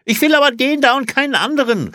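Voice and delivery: high, loud, fast outburst; trotziger Ruf. A narrator's reading. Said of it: "rief Olli". (laut und trotzig gerufen)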